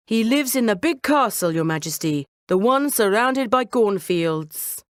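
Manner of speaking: lie with easy charm; smooth liar cat. Acted. Cat lying to the king about the castle, smooth.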